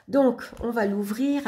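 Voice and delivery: hushed whisper, no voice at all. Real, not acted. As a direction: breathe it out as if sharing a secret. Whispers while opening the book.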